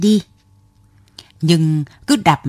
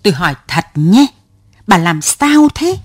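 louder, pressing each word; through gritted teeth; 3 dB louder than usual. Acted. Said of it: "gằn lên từng tiếng một".

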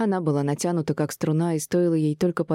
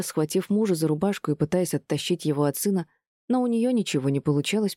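ordinary delivery

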